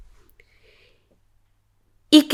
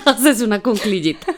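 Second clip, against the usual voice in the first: laughing while repeating the boss's advice about the little squat. Retold or imitated. Retelling the boss's squat tip, laughing. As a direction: say "Haces una cunclillita" through a laugh.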